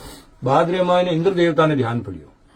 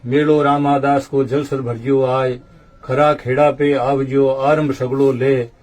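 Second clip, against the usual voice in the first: verse recitation. Acted. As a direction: recite the couplets in measured, metrical phrases.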